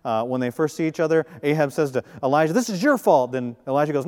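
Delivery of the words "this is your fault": put-on childish blame. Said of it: "like a middle school argument".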